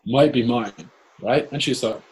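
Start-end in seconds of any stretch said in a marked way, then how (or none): 0.0-0.9 higher and louder, slow, laughing through it; laughing politely. Retold or imitated. Telling the family their bag might be his, laughing and slow. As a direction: laugh while politely claiming it back.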